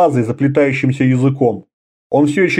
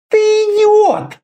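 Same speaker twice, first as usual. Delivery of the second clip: much higher, slow, sharp hissed insult; much slower than usual. A narrator's reading. Karela hissing at Conan, slow and sharp. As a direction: spit the insult out furiously. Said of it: "прошипела она".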